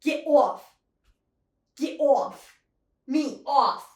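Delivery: loud, mock New York style get off; shouting at a gecko in a joke accent; made-up accent. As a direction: yell it in a put-on Long Island accent. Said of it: "I'm loving the accent".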